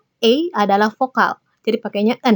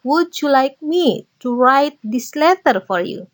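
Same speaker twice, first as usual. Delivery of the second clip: slow model sentences; 3 semitones higher, slower than usual. Shown as a demonstration. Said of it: "Izinkan aku ngapain misalnya".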